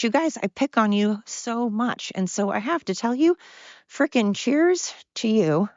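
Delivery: out of breath; talking while short of breath; winded. Real, not acted. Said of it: "Oh my God, I'm winded".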